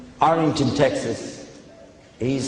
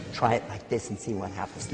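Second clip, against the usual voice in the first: much softer, as if off the microphone; away from the mic; 8 semitones lower, 12 dB quieter than usual. Shown as a demonstration. Speaker shows the crowd speech without a microphone, far and soft. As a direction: drop off the mic so the words fade. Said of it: "You know what it's like not to have it?".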